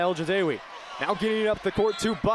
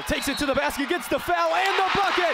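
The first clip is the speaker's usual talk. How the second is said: excited call; 9 semitones higher than usual. Real, not acted. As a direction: build up to the buzzer like a live commentator. Buzzer-beater basket in basketball call.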